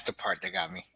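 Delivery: hushed, moved whisper. Real, not acted. Host to cohosts, whispering the line that moved him. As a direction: breathe it almost silently.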